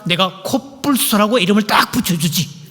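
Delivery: lightly voiced pompous husband; puffed-up Adam. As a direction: speak with shoulders puffed up. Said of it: "어깨 힘 딱 주면서".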